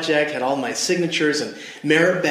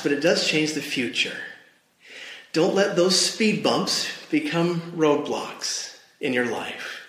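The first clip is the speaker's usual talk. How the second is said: preaching. Acted. Pastor exhorts the congregation.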